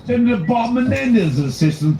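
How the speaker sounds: hammy English assistant voice; English accent. Retold or imitated. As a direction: prank caller posing as a British assistant. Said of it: "so it's so funny that you're doing an English accent".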